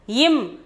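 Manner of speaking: "im" as a brief nasal m; short sound. Shown as a demonstration. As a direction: model "im" short, ending on closed lips. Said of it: "as im in a short sound".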